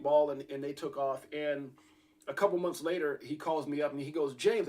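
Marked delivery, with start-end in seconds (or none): 4.3-4.7 imitating a miffed friend on the phone; retold address, a bit louder and higher, mildly peeved; mildly ticked off. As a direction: call the name out, slightly annoyed. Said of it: "sounded like he's a little ticked off".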